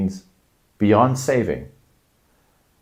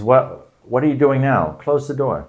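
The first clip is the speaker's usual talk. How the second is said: mild mock exasperation, a bit higher; exasperated; 5 semitones higher than usual. Speaker annoyed at someone who left the door open. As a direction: sound a little fed up. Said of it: "It, it means".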